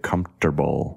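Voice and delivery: "comfortable" said as "comp-ter-bul"; P instead of F. Shown as a demonstration. Needling co-host with "comfortable" said as "compterbul". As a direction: swap a P into "comfortable", three syllables. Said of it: "has a P in it instead".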